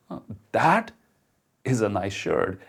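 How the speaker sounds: genuine, stressing is, with a pause after that; mean it, a small hesitation then warm stress on is; sincere compliment. Shown as a demonstration. Showing how tone changes a compliment, sincere. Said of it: "the same words, and yet they sound so different".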